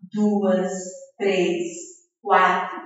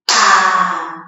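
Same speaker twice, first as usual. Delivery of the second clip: "Abacaxi" in four separated, lower beats; clapped syllables; 6 semitones lower than usual. Shown as a demonstration. Teacher clapping with children, "Abacaxi" syllable by syllable. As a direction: pause after each syllable of "Abacaxi". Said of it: "Vamos bater palma?".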